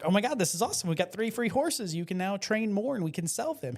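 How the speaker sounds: a lightly voiced thrilled wife; excited wife. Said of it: "So the wife is like".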